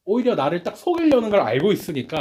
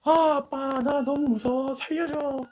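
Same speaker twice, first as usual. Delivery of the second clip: much higher, mock-tearful plea for help; crying voice; 12 semitones higher, slower than usual. Preacher voicing a kidnapped daughter crying to her father, mock-tearful. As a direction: whimper it like a scared child on the phone, put-on. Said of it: "막 우는 목소리로".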